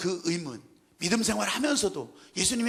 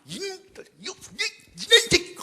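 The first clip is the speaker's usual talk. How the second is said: high furious cry, bursting loud; angry shout; 10 semitones higher, 4 dB louder than usual. Retold or imitated. Preacher showing groaning anger of Jesus, high angry shout. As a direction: shout it out in rage. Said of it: "그냥 화를 내면서 막".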